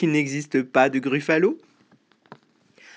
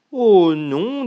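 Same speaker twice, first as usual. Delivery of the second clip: higher, louder mouse protest; 5 semitones higher, 6 dB louder than usual. Acted. Mouse refusing to be eaten, high protest. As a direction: object quickly in a raised voice.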